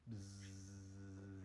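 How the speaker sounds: soft drawn-out imitated fly buzz. Father imitates the story's fly, soft buzzing. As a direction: buzz quietly like a passing fly.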